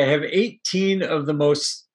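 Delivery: mock stern captain. Captain scolds about the crew.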